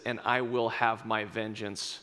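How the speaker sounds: low, slow, menacing whisper-growl; Maximus vengeance. Retold or imitated. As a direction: swear revenge deep and quiet. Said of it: "he says".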